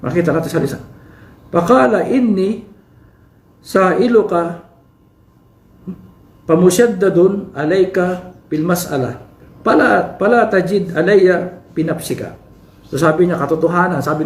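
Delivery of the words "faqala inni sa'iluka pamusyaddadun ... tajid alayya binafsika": slow Arabic hadith recitation. Acted. Teacher reciting the hadith to his class, slow and measured. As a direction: draw out each Arabic word slowly.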